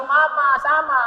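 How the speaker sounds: lightly voiced child begging; a hint of a clingy child; child asking mama to come, mild plea; child's plea. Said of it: "yung bata sumasama".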